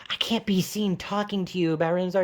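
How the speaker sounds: put-on whispery secretive teen. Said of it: "he's like".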